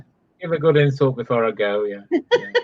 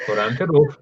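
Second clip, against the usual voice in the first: put-on Cardiff Welsh; Welsh accent. Sending someone to Missus Evans, in a Welsh accent. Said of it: "What part of Wales is that then?".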